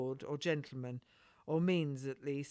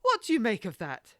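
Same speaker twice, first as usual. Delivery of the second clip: lady exclaims in surprise after the captain leaves; exclaiming; 6 dB louder than usual. Acted. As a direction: burst out in disbelief at the closed door. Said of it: "Lady Paris exclaimed".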